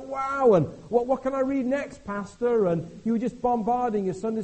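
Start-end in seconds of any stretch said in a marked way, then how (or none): 0.0-2.7 high, loud, fast eager questions; eager new believer. Retold or imitated. Preacher voices a new Christian pestering the pastor excitedly. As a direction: gush like a keen new convert.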